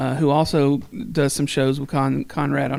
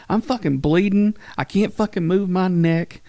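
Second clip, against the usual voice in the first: higher-pitched mock outrage; retold anger; 5 semitones higher than usual. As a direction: play up the injured fury. Retelling Corey's angry outburst.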